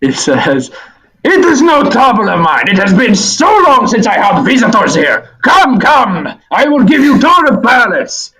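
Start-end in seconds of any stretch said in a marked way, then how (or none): 1.2-8.3 high, hearty Russian creature voice; heavy Russian accent. Acted. Tower creature welcoming Sal, heavy Russian accent. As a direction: greet them in thick Russian-accented English. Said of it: "So a deep Russian voice".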